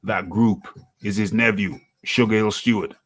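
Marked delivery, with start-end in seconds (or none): 2.0-2.9 reading an article aloud, newsy cadence; news read. Acted. Host reads out news article.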